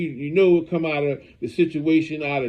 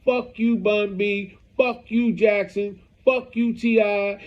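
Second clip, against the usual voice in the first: half-hearted impression of an online rant; retold cursing rant; 5 semitones higher than usual. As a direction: imitate him cussing everyone out, voice pitched up. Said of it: "He's saying".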